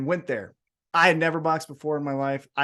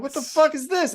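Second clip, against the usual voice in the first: put-on confused kid; 12 semitones higher than usual. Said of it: "And I'm like".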